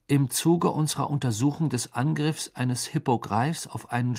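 lightly formal read-out; reading a letter aloud. A narrator's reading. Harry reads Hagrid the official letter, formally. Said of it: "las vor".

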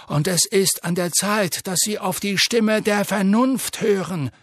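loud, commanding headmaster; booming old wizard. A narrator's reading. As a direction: lay down the truth forcefully. Dumbledore's booming speech continues.

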